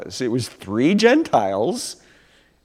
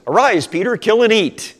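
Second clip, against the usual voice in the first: raised, louder divine command; voice of Jesus; 9 semitones higher, 5 dB louder than usual. Retold or imitated. Jesus' voice commands Peter, raised and ringing. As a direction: call down from heaven, commanding. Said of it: "Jesus' voice says".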